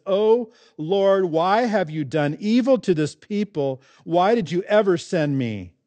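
frustrated accusation. Acted. Moses accusing the Lord over his suffering people, mildly frustrated. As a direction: plead in frustration, drawing out the last question. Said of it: "perhaps fear, anger, frustration".

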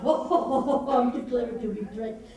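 amused boast through laughter; laughing lion. Acted. Lion laughs at Anansi's victims, laughing boast. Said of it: "oh, he would laugh".

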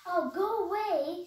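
high, loud shriek of fright. A narrator's reading. Witch shrieking at the turkey to go away. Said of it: "she shrieked".

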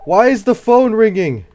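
high, loud and slow, frightened; dreading the ringing phone; scared. Real, not acted. Gamer asking in fright why the phone rings.

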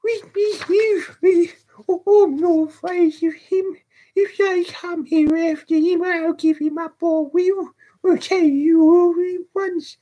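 put-on very high, loud, agitated boy; frenzied high-pitched calls for help; boy's frantic cries. A narrator's reading. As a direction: cry out wildly in a high child's voice. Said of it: "Pouring out these cries".

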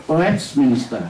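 Westminster drawn out slowly, each syllable spaced. Shown as a demonstration. Teacher slowly sounding out Westminster for the class. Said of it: "đọc nói trên radio này cũng nói".

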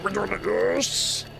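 high thrilled cheer; excited cheer. Real, not acted. Excited at game moment.

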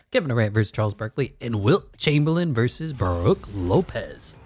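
lively announcer reading out a lineup; matchup announcer. Pretend. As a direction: announce each pairing like a fight card.

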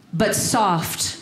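hammed-up Shakespearean verse, slowed; mock Romeo. Romeo after passing wind, mock-grand recital. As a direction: ham it up like a gassy Romeo. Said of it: "he would say something like this".

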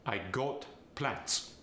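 plans ending in a hissed S, plants; Farsi accent. Shown as a demonstration. Coach demonstrating a Farsi accent, plans with an S. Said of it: "The Z sound becomes the S sound".

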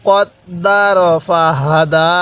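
কদ্দার ফাহাদা slow with doubled দ; slow recitation. Shown as a demonstration. Teacher leading repetition, slow chant. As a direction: recite slowly for the class. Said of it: "আরেকবার আমার সাথে পড়ুন".

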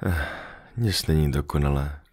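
a soft sigh, then the words let out quietly; sighing fox. Acted. The fox sighing softly to the little prince that nothing is perfect. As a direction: breathe it out, resigned and soft. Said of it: "povzdechla si liška".

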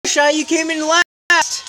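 game character voice. Acted. Reading game character line.

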